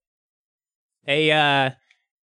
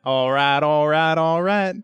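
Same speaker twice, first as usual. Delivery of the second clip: lazy Texan all right all right in a McConaughey voice; Matthew McConaughey; 3 dB louder than usual. Retold or imitated. Player mimics the gnome's switch to a Texan McConaughey voice. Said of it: "switches to Matthew McConaughey accent".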